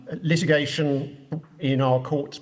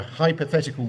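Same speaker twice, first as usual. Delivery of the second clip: hypothetical given deliberate emphasis; stress on hypothetical. Real, not acted. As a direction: make the word hypothetical stand out. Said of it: "I emphasise the word hypothetical".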